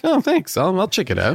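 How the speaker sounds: high, forced-polite thanks; fake polite thanks. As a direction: pretend to be pleased with a bad gift. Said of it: "I might be like".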